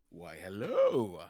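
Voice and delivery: slow, loud greeting that cracks. Real, not acted. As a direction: voice breaking on hello. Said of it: "I just heard my voice crack super hard".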